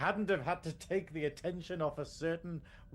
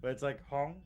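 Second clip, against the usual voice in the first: normal talking voice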